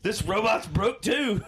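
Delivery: slow, high words through real laughter; laughing. Real, not acted. Joking with his friend about robots, laughing. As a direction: laugh your way through the line.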